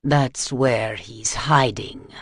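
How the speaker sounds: slow, low, suddenly lucid; calm and rational. Acted. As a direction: say it with eerie clarity. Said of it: "In a completely rational, coherent voice".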